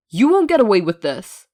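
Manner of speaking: loud furious threat; angry. A narrator's reading. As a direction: threaten through the door. Hisashi angry, locked in.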